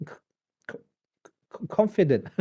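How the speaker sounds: nervous stammer, stuck on the first sound; stutter. Shown as a demonstration. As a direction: block on the "c" before getting the word out. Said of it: "does he stutter, um, a bit".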